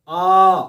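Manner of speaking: long open आ from the throat; drawn-out आ. Shown as a demonstration. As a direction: sing out आ, held from the throat. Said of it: "कंठ से". (गले से खिंचा हुआ आ)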